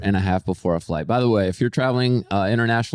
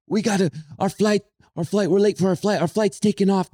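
high, frantic mock scream of a late traveler; panicked screaming; 9 semitones higher than usual. Late couple at the counter, mock panicked scream. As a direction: squeal it out like you're missing your flight. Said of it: "they start screaming".

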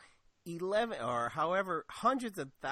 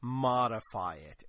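air quotes; 3 semitones lower, slower than usual. Retold or imitated. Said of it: "once again, air quotes".

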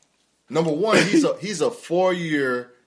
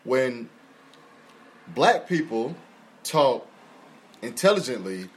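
quoting her post; 3 semitones lower than usual. Retold or imitated. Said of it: "She said".

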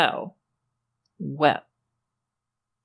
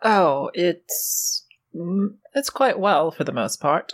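genteel lady voice. Acted. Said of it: "this is my character voice".

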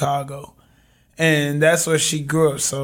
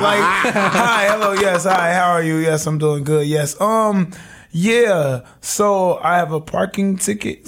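overly proper phone voice; 3 semitones higher than usual. Retold or imitated. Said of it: "Even before they even talk".

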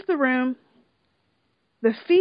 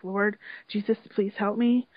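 tearful prayer; 4 semitones lower than usual. Retold or imitated. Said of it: "He is crying".

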